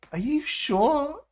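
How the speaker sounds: put-on high, slow English-accent tease; mock English accent. Teasing the AI voice, in a mock English accent. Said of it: "You've nailed the accent for one person in England".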